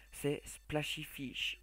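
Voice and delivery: slow, self-mocking English accent on the name. YouTuber announcing the app name in a mock English accent. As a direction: stretch out Splashy Fish in a hammed-up English accent. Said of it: "magnifique accent anglais".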